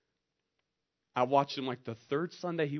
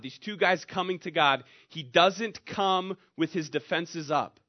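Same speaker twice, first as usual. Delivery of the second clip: ordinary delivery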